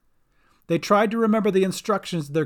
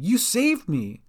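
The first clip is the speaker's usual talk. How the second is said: higher, slow exclamation; shouted; 5 semitones higher, slower than usual. A narrator's reading. Gran thanks Bink in the water, raised voice. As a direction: exclaim it, drawn out. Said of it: "shouted Gran".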